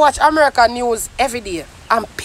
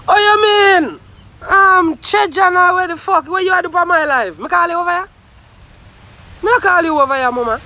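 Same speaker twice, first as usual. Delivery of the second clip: high opening, annoyed challenge; indignant scolding; 4 semitones higher than usual. Real, not acted. Scolding someone who barged into the live, indignant. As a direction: tell off an unwelcome intruder.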